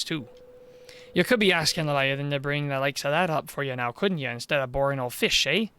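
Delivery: a lightly voiced Welsh village mayor, low and coaxing; scheming mayor charming a girl, low Welsh lilt.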